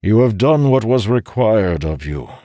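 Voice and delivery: put-on stern old man, scolding a child; firm scolding tone. A narrator's reading. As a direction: scold him like a child, firmly. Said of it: "said in a firm tone, as if he was scolding a child".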